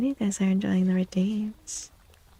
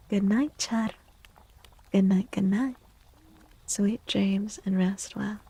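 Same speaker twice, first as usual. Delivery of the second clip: goodnight whisper. Acted. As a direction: whisper it like a lullaby. Bedtime farewell whisper.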